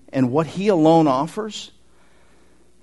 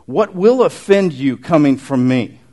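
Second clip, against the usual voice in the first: slow firm challenge; 7 dB louder than usual. Acted. Voicing Jesus's challenge.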